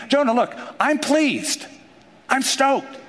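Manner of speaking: God cheerfully pleased. Acted.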